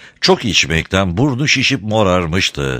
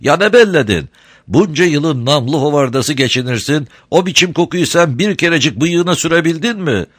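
high, sweet-talking crafty smuggler; sly, sugary old rogue; honeyed voice; 9 semitones higher, 3 dB louder than usual. A narrator's reading. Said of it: "tatlı konuşuyor".

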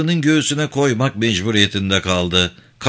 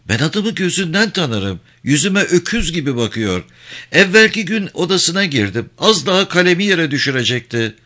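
lightly voiced woman, pitched higher; a hint of a self-satisfied wife, higher; boastful wife; 5 semitones higher than usual. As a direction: gossip knowingly in a raised pitch.

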